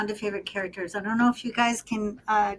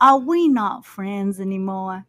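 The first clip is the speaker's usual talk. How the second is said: acted Doc Holliday. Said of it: "just act out the movie".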